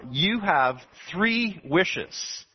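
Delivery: slow, grand genie voice. Acted. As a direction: draw it out like a magic genie. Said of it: "And the genie said to him".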